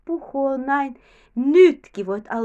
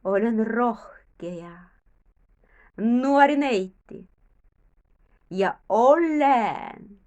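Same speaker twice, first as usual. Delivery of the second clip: slow affirmation; 3 semitones lower, slower than usual. Shown as a demonstration. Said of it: "Ja sanomme näin".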